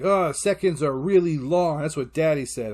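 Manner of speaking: a hint of a child parroting a lesson; kid repeating Dad. Kid repeating dad's lesson to mom, insistent. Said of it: "And then he's like".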